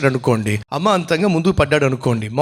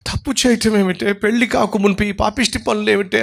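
scolding mother; 6 semitones higher than usual. Retold or imitated. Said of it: "గట్టిగా అరవకమ్మా".

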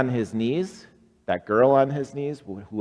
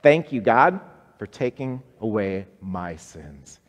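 loud congregation response; 6 dB louder than usual. Shown as a demonstration. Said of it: "Say that with me".

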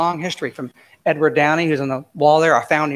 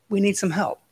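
hushed plea for help; whisper; 4 semitones higher than usual. Real, not acted. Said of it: "unvoiced whisper".

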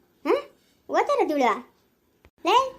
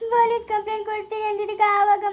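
crying; 2 semitones higher than usual. Acted. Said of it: "ಅಳ್ಬೇಡ ಮಗಳೇ".

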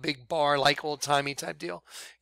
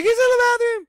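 high, loud, frantic yelling; panicked shriek; 8 dB louder than usual. Retold or imitated. Housekeeper calling the son in panic, shrieking high. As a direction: shriek in terror that he's down. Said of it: "she's like".

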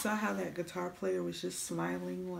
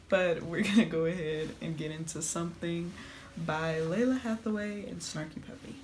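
mouth full. Real, not acted. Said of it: "Sorry for the lollipop being in my mouth".

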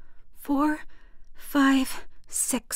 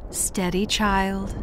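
cooing; slower than usual. Acted. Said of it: "she cooed".

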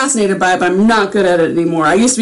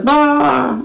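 mock babbling; 6 semitones higher, slower than usual. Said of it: "I'm all over the place".

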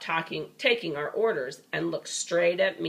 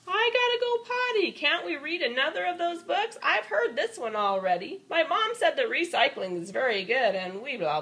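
put-on high childish kid voice; lightly voiced kids chattering at story time; 5 semitones higher than usual. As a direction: babble like an impatient little kid.

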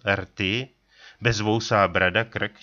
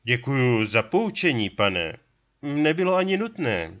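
higher, slightly fast retort; narrator's own voice, raised; 8 semitones higher than usual. A narrator's reading. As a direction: answer the trapper a bit stung. Vypravěč odpovídá Tlouštíkovi. (vypravěč odpovídá Tlouštíkovi vyšším hlasem)

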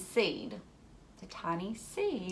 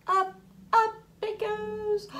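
rising up; 13 semitones higher, 6 dB louder than usual. Pretend. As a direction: lift the voice up as it rises. Seed rising high.

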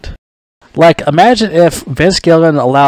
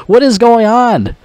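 higher, incredulous outburst at the writers; exasperated disbelief; 6 semitones higher than usual. Retold or imitated. Mocking his own reaction to stormtroopers in a zombie show, in exasperated disbelief. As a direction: pitch rising into baffled outrage. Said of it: "and I'm like".

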